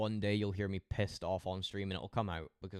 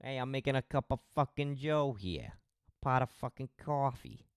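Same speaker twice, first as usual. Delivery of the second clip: higher, louder mock American; mock American accent; 6 semitones higher, 4 dB louder than usual. Teasing a viewer, loud mock American accent. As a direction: play a brash American making coffee. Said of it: "can you say pot of coffee".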